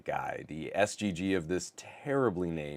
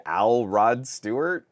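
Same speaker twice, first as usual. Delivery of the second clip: 1 puzzled question; 5 semitones higher, 9 dB louder, slower than usual. Retold or imitated. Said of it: "It was like".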